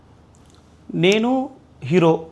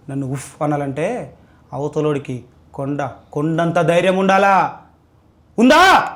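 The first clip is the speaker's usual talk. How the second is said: serious warning; slower than usual. Pretend. Rejected lover warns the girl seriously, stern and building. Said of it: "దీన్నే సీరియస్గా అడుగుతా, warning ఇచ్చినట్టు".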